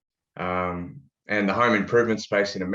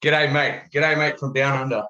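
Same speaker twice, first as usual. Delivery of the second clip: hammed-up Australian greeting, a touch louder and higher; thick Aussie accent; 4 semitones higher, 4 dB louder than usual. Guest greets the host's audience from Australia, in a hammed-up Australian accent. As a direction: lay the Australian accent on thick, mock-proud. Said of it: "Just really lay it on thick".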